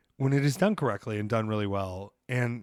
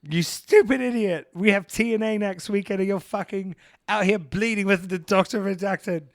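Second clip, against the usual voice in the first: mock Australian yell; 8 semitones higher, 4 dB louder than usual. Girlfriend scolding him from home in a mock Australian accent. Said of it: "yelling with her Australian accent".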